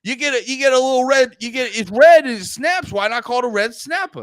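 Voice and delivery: high, quick local explanation; mock New Englander. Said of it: "it's, like, retarded New Englander".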